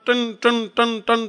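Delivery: slow, evenly spaced bell strokes; imitated bell clang. Elder shown how to ring for food, imitated clanging. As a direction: sound out a ringing bell, stroke by stroke. Acting out ringing the big bell.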